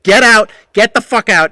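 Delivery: high, loud get-out shout; furious shout. Retold or imitated. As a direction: bellow him out of the bar. Ordering man out.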